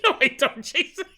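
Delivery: high, mock-indignant objection; hammed-up refusal, pitched high; imitated listener protest. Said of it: "You're like".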